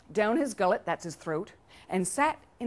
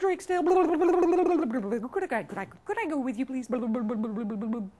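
babbling, burbling plea, starting high; pleading river voice; 4 semitones higher, faster than usual. Acted. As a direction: bubble like water around hurried begging words. River begs to come along.

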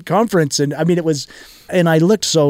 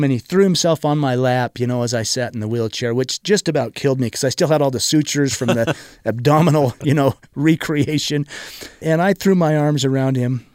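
normal talking voice

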